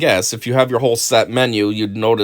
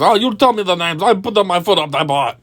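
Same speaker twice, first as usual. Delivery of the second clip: mock aggressive threat; 6 semitones higher than usual. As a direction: parody a hothead promising revenge. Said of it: "this guy starts getting aggressive".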